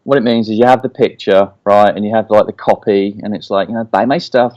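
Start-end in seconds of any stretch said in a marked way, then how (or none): 3.8-4.5 politely asking "Buy my stuff". Shown as a demonstration. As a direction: say "Buy my stuff" nicely, courteous. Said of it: "like, politely".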